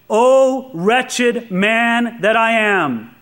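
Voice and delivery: slow, aching cry of despair; slow anguished lament; desperate cry. Acted. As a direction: draw it out like a man at the end of himself. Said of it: "Paul cries out in desperation".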